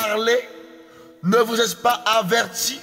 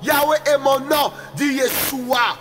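raised, ringing proclamation of the divine name; fervent proclamation; 3 semitones higher than usual. Real, not acted. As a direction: cry each name out like a herald. (proclamation fervente, à pleine voix)

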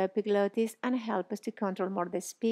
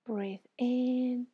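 guided breathing; slower than usual. Shown as a demonstration. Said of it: "breathe in and out through your nose".

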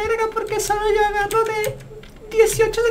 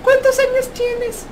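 slow put-on child question; lightly faked little kid, drawn out; fake kid voice; slower than usual. Shown as a demonstration. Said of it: "Así, así, güey".

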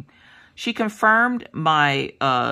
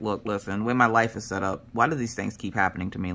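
exasperated; 9 semitones lower, 5 dB quieter than usual. Retold or imitated. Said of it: "And I was just like".

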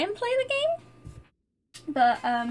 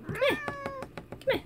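calling the cat; 12 semitones higher, 4 dB quieter, slower than usual. Real, not acted.

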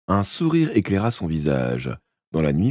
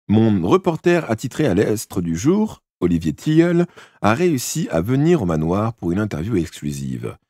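lightly voiced proud boy; boastful and eager young man; 2 semitones higher than usual. Mathieu's long proud speech.

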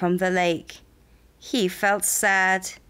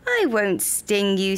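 whispered reassurance. Acted. Bee reassures frog.

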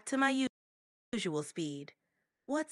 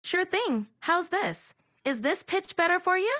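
high-pitched, louder assistant voice; higher pitch; 6 semitones higher, 12 dB louder than usual. Shown as a demonstration. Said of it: "speak in a higher pitch".

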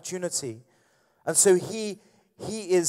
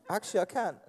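laughing in character; 5 semitones higher, faster than usual. Pretend. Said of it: "I'll do your voice".

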